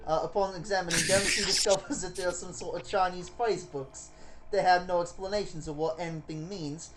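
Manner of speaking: bad British accent landing in New York; British attempt with a New York tinge. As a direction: have a clumsy go at a British accent. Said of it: "a British accent and more of a New York".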